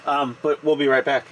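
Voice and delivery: ordinary talk, nothing marked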